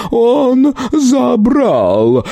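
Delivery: very high, drawn-out panicked cry; frozen terror. Acted. Petrified shopkeeper cries out, very high and slow. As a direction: stretch it out in horror.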